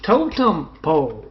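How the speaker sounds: put-on loud, childish shouting for mom; mock little boy yelling for his mother; kid yelling. Little boy yells to his mom about Tommy, loud. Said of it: "the little boy keeps yelling".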